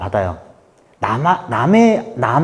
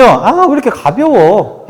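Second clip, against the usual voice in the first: drawn-out, higher-pitched mild scolding; mock reproach; 6 semitones higher, slower than usual. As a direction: stretch it out like an exasperated critic. Voices critics of expressive types.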